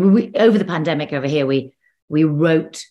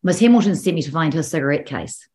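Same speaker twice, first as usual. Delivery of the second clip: lightly done New Zealand accent; 2 semitones higher than usual. Shown as a demonstration. Actor showing her key phrase for the accent, New Zealand accent. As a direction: Kiwi vowels on a practice phrase. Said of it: "a phrase which got me into it".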